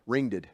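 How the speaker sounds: ringeded with a doubled -ed ending; Tennessee ringeded. Shown as a demonstration. Preacher joking to congregation about Tennessee speech, ringeded. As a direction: say ringeded as a Tennessee folk past tense. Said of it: "That's how they say it in Tennessee".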